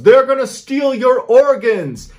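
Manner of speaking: imitated panicked yell, high and loud; Sabina. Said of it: "Sabina yells".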